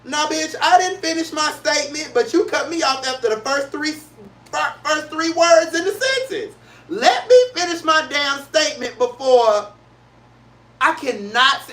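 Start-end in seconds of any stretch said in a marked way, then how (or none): 0.0-9.7 sassy retort. Retold or imitated. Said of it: "it has me looking like".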